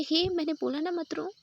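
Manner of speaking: प्यार भरी डाँट. A narrator's reading. Jess scolds crying Jennifer.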